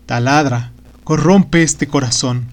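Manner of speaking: a lightly voiced trembling old magician in torment. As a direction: plead and rail at a cruel god. The magician's lament.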